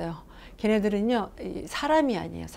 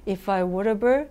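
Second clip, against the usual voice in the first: slow example phrase; much slower than usual. Shown as a demonstration. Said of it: "약간 유치해요".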